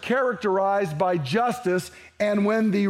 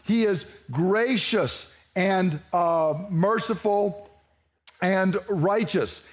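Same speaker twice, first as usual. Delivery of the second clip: slow scripture reading; slower than usual. Shown as a demonstration. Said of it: "And that phrase there".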